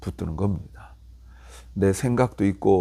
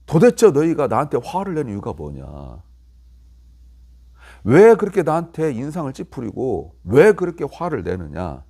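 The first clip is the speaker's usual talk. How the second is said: mildly indignant questioning of accusers; retold protest, pressing hard on each 'why'; 3 semitones higher, 4 dB louder than usual. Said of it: "그러면서 물어보는 거예요". (따지듯 항의하는 말투)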